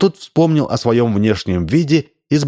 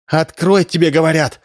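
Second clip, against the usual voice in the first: exclaiming; 6 semitones higher than usual. A narrator's reading. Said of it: "воскликнула Римма".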